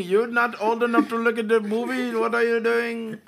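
loud, high-pitched imitated telling-off; mock-outraged shopkeeper catching a kid; acted scolding clerk. Store clerk confronting underage kid.

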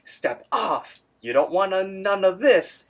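a hammed-up tough guy warning off baby ducks; mock tough Rigby. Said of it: "And Rigby's like".

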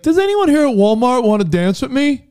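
high, slow simple voice; slow-sounding guy voice. Retold or imitated. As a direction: sound slow but sly. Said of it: "he sounds slow".

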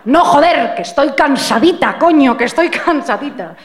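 fed up, spit it out; exasperated snap. Pretend. Exasperated wife finally snaps. (estallido de hartazgo)

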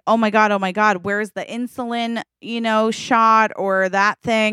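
acted fluster, searching frantically for help; a touch of panic; freaking out. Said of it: "like, freaking out".

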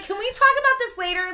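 high, loud pleading shout; yelling back at her sister to stop, high and loud. Retold or imitated. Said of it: "screaming at each other in the bathroom".

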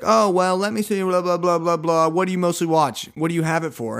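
high, loud blah-blah sales patter; bubbly saleswoman. Retold or imitated. Saleswoman rushing through her questions, high and bubbly. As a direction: gush through the pitch. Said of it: "she's like".

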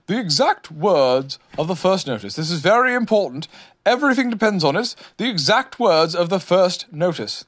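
high, emphatic demand; insistent. A narrator's reading. Owl presses Rabbit for exact words, insistent. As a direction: press each point as vital.

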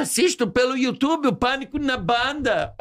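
put-on high, slowed Portuguese kid voice; imitated Portuguese lad. Portuguese boy tells comedian he watches online, high imitation. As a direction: mimic a young fan, drawn out and high. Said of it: "Ele falou assim".

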